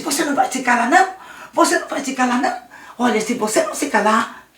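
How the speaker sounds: a hint of the cruel bully; bully taunting. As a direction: Luiz taunting Daniel to stop crying. Luiz repeats threat.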